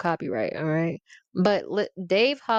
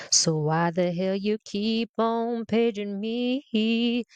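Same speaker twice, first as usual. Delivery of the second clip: slow lyric reading; slower than usual. Shown as a demonstration. Reading a rapper's lyrics aloud to viewers, slow and deliberate. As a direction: read the lyrics slowly and deliberately. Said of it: "Imma just read these lyrics".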